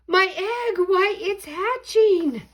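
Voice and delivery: high, loud, slow amazed cry; excited shout. Acted. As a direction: marvel out loud at the hatching. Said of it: "shouted Horton".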